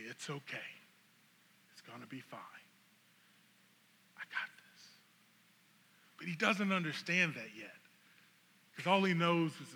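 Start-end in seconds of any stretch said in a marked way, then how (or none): 0.0-4.9 hushed self-reassurance, dropping into a whisper; very soft, low murmur to calm oneself; soothing. Acted. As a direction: soothe yourself, barely audible. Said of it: "to soothe".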